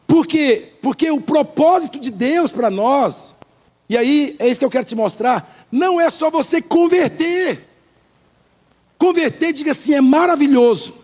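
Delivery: high-pitched, emphatic pulpit exhortation; rousing sermon delivery; forceful preaching. Real, not acted. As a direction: drive the point home to the congregation. Preaches the point to congregation.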